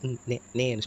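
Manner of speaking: இன், then நே as a separate syllable; N consonant sound. Shown as a demonstration. Teacher giving the second consonant, நே sounded out singly. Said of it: "சொல்லி தான் உச்சரிக்கணும்".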